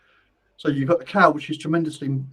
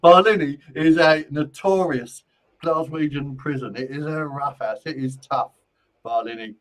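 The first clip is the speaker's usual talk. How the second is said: attempted Scottish accent; 5 dB louder than usual. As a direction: have a rough go at a Scottish accent. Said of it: "I can't even get the accent anymore".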